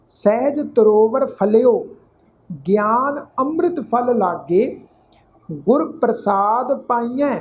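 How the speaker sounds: slow, phrase-by-phrase recital with long pauses; measured scripture recitation. Real, not acted. Teacher reciting gurbani to the sangat, slow and measured. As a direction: recite each phrase deliberately, letting it settle.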